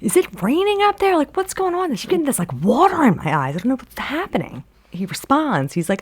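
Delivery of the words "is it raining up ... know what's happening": high-pitched call up to someone; mock holler without much volume. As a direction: call upward, puzzled, in a raised pitch. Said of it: "so you holler up to him".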